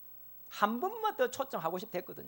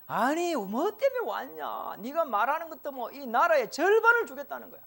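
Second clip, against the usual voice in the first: coaxing king; 3 semitones higher than usual. Acted. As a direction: draw it out like a smitten king. King urging Esther to speak.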